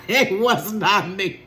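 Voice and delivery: slow, laughing it wasn't me; laughing denial. Real, not acted. Mom denying to her viewers, laughing. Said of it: "it wasn't me".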